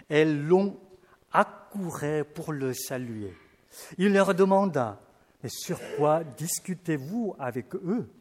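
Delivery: measured, solemn Bible reading; scripture reading. Acted. Preacher reads the Gospel to the congregation, solemnly. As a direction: read the passage like a lector.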